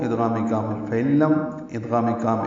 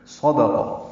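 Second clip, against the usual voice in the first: Quran recitation; much slower than usual. Shown as a demonstration. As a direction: slowly chant نجواکم صدقہ in tajweed style.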